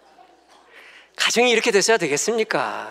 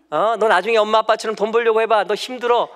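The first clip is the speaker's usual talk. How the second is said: loud, pitched-up telling-off; scolding parent; 5 semitones higher, 5 dB louder than usual. Retold or imitated. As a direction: scold the kid hard. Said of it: "막 야단치면".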